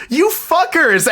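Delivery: high-pitched, drawn-out playful accusation; mock outrage. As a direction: accuse your friends in high, mock indignation. Friend's reaction to the reveal, retold.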